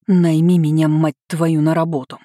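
hoarse words forced through teeth. Acted. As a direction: hiss it out hoarsely, loud. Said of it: "процедила я хрипло".

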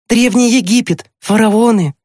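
put-on high, thrilled boy's voice; excited exclamation. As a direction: exclaim each find high with delight. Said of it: "воскликнул Тимкин". (восторженные высокие возгласы мальчика)

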